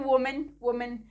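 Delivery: वुमेन with a full "men" ending; common mispronunciation. Shown as a demonstration. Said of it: "लेकिन हम क्या पढ़ते हैं".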